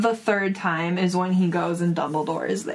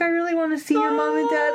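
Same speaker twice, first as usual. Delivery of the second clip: eager; 6 semitones higher, faster than usual. Retold or imitated. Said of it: "it says he says that eagerly".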